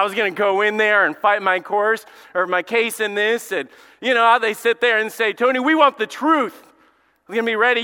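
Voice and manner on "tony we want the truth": loud, raised mock lawyer demand; TV courtroom drama. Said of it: "what you see on T V".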